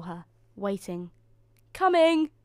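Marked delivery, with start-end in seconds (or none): 1.7-2.3 high, loud driver's call. A narrator's reading. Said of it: "called the driver".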